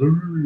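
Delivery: imitated muffled teacher wah-wah; Charlie Brown's teacher noise. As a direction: mimic a wordless cartoon teacher's drone. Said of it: "it's Charlie Brown's teacher there".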